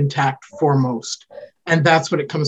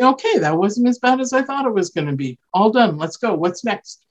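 upbeat relief; 6 semitones higher than usual. Shown as a demonstration. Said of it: "modeling that and then saying".

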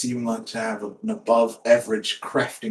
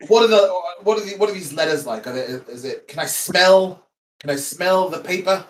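New York gangster; 4 semitones higher, 4 dB louder than usual. Acted. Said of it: "turned into a New York gangster".

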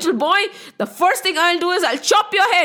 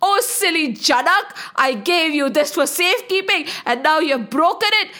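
put-on mildly raised, indignant old sage's threat; angry old man shouting; 2 semitones higher than usual. Angry old sage demands who broke Shiva's bow, acted mild storyteller's shout. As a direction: thunder at the culprit, without a full shout. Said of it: "shouting foul language".

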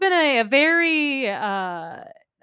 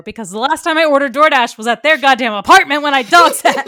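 louder, laughing exasperation; laughing through it; 2 semitones higher, 10 dB louder than usual. Real, not acted. Confessing the old DoorDash address to her cohost, laughing loudly. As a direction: laugh while you confess.

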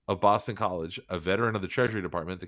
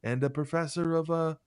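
high, hammed-up Boston townie; Boston accent; 9 semitones higher than usual. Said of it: "Say that in a Boston accent for me".

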